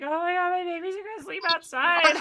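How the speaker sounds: hammed-up panic over the baby chickens; mock panicked mom. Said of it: "I'm like".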